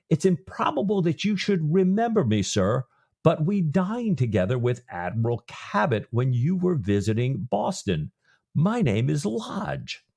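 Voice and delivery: lightly acted holler between ships; hollering across. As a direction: call it across as a ship's captain, slowing on the name. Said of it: "the Delaware's captain hollers across".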